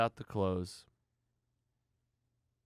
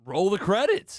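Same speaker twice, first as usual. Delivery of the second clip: announcing loudly; 10 semitones higher, 10 dB louder, slower than usual. Retold or imitated. Announcing the film's ending.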